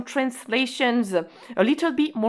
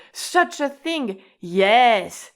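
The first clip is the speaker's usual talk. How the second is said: emphatic such a thing; 2 semitones higher, much slower than usual. Shown as a demonstration. Teacher showing the nante nuance, emphatic. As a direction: marvel at it, then confirm firmly. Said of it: "nante kind of adds a, such a nuance".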